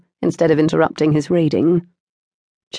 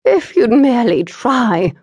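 pleading; 6 semitones higher, 4 dB louder than usual. A narrator's reading. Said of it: "Hortense pleaded".

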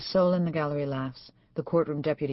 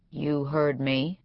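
even; much slower than usual. A narrator's reading. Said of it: "he says evenly".

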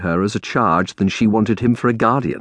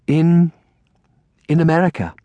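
higher, halting aunt voice; hesitant; 8 semitones higher than usual. A narrator's reading. Aunt breaks news of distant home, hesitant. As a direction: falter before giving the answer. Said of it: "Aunt Felicia hesitated".

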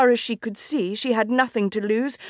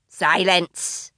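hissed; 2 semitones lower than usual. A narrator's reading. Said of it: "the fox hissed".

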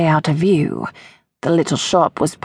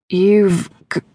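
stammering. Acted. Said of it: "Plimpton stammered".

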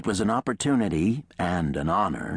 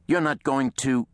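raised question left hanging; trailing off; 8 semitones higher than usual. A narrator's reading. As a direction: break off before finishing. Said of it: "voice trailed off for a beat".

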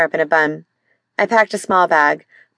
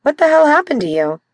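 shocked; 8 semitones higher than usual. Acted. Seeing him bent in pain.

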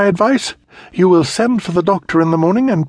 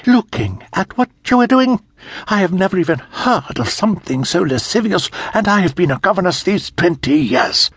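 governess shouting; 8 semitones higher than usual. A narrator's reading. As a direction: shout it at the girl, scandalized. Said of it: "Miss Plimpton shouted".

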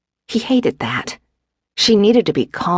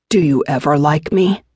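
lightly teasing husband. A narrator's reading. Husband to grumpy pregnant wife, teasing. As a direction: tease with an easy, questioning lilt. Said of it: "he teased".

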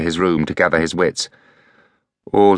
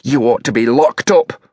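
a touch of rasp, louder and scornful; 6 semitones higher, 4 dB louder than usual. A narrator's reading. Freya clawing at Elliot, rasping scorn. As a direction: spit it at him like an accusation.

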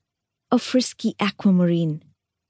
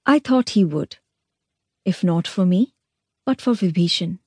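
wistful. Acted. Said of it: "she added wistfully".

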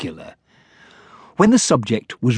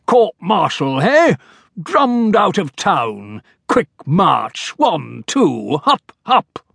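blustering general; 6 semitones higher, slower than usual. Acted. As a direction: puff up like an indignant old soldier. General character voice.

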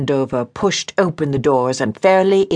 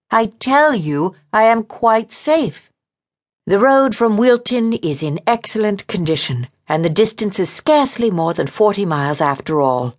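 higher woman's voice, arguing back; insistent, indignant woman; 6 semitones higher than usual. Acted. Woman argues that the road was safe, indignant. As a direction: insist on it in a raised pitch.

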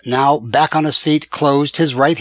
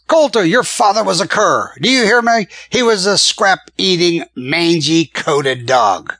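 loud, high, spitting insults; raging taunt, dragged out at the end; furious taunting; 5 semitones higher, 4 dB louder than usual. A narrator's reading. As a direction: goad him with contempt, slowing on the last words. Gunman insulting the narrator's father.

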